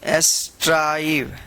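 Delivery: स्ट्राइव slowly with a long ai and a falling tune; say strive. Shown as a demonstration. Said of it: "क्या पढ़ेंगे इसको?".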